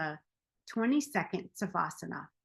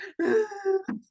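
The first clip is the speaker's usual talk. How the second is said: mock bawling; 12 semitones higher, 5 dB louder than usual. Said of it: "I start bawling again".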